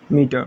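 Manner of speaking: मीटर ending in a short "uh", R dropped; silent final R. Shown as a demonstration. Teacher showing the ER ending, final R silent. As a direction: say मीटर as "mee-tuh". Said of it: "आर होता है आपका silent".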